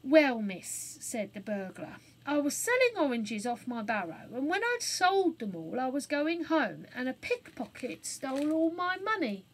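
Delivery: a hint of a cockney man; lightly voiced cockney burglar; rough burglar. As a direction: confess a bit sheepishly. Burglar tells his story.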